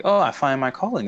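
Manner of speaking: mock bubbly lilt; bubbly girl. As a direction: play her lightly bubbly and delighted. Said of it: "this real bubbly girl".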